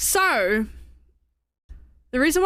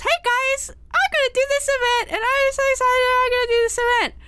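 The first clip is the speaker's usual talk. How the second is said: excited; 10 semitones higher, faster than usual. Retold or imitated. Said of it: "I announced".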